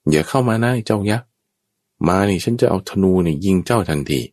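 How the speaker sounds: high, threatening the giant; defiant warning. Acted. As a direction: stand your ground and warn him off. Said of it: "บอกกับมันว่า". (ขู่ยักษ์อย่างกล้าหาญ)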